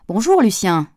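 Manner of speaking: called-out greeting. A narrator's reading. Pascal hails the gardener from the porch steps, calling out. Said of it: "cria-t-elle en dévalant les marches".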